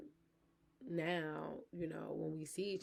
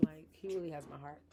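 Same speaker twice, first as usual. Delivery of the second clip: whisper; 4 dB quieter than usual. Real, not acted. Confiding love for her boyfriend.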